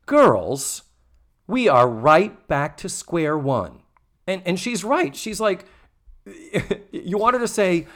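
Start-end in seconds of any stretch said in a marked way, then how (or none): 0.1-3.8 commendably firm. Retold or imitated. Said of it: "Missus Garrett commendably says".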